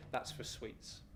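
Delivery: put-on whispered, soft old-lady quote; quoted old lady. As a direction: hush it out like a granny. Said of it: "and I quote".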